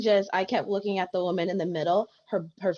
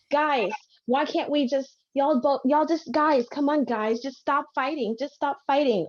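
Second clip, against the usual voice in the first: put-on pleading white girl; 7 semitones higher than usual. White girl pleading with classmates to stop fighting, high mock plea. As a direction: imitate a girl begging everyone to stop, voice pitched up. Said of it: "but the white girl".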